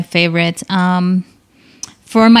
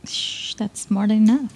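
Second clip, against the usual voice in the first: whispered, half-teasing scold; playful whisper; 6 dB quieter than usual. Real, not acted. Guest whispering at cohost to keep her secret, hushed scold. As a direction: hush him without anyone hearing.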